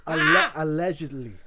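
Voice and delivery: allegedly said through a laugh; laughing hedge. Real, not acted. Speaker hedges the rumor through laughter. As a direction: stress the hedge while laughing. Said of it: "hold on".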